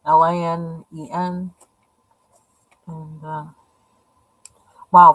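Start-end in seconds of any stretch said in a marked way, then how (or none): 0.1-1.5 "L I N E N" spelled letter by letter; spelling it out. Shown as a demonstration. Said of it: "I wanted it to look like it's linen".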